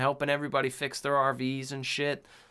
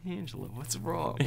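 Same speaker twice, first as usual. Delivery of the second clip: higher, softer put-on concern; movie character impression; 5 semitones higher, 7 dB quieter than usual. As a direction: ask it softly in a put-on character voice.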